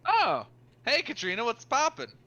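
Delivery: high, bright Wisconsin Irish lilt; Wisconsin Irish accent. Acted. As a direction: greet them in a vaguely Wisconsin Irish voice. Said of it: "I forgot her accent".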